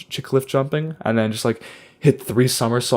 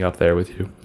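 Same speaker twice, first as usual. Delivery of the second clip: losing voice; 4 semitones lower than usual. Real, not acted. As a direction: voice giving out at the end. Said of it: "I just lost my voice there at the end".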